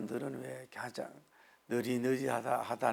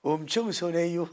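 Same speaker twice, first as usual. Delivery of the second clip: louder Chungcheong dialect; Chungcheong accent; 3 semitones higher, 5 dB louder than usual. Retold or imitated. Pastor contrasting regional dialects, Chungcheong accent. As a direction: say it easygoing, Chungcheong style. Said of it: "충청도".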